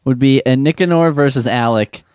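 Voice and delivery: ordinary talk, nothing marked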